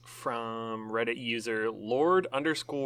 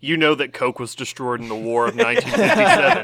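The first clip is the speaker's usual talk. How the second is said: pushy waiter voice; 2 semitones higher, 6 dB louder than usual. Pretend. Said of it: "they'd be like".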